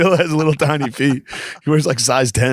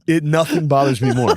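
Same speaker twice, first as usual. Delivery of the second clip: usual speaking voice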